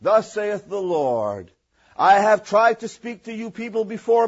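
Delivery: a hint of a solemn prophet voice; lightly imitating a pulpit prophecy; mild mock thus-saith-the-Lord delivery; mock prophetic interpretation. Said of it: "somebody will interpret and go".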